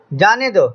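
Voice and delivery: "जाने दो" set apart, falling at the end; separate phrase after comma. Shown as a demonstration. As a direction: say "जाने दो" as its own calm closing phrase. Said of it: "तो अब देखें क्या बात बनी". ("जाने दो" अलग टुकड़े में, गिरते सुर के साथ)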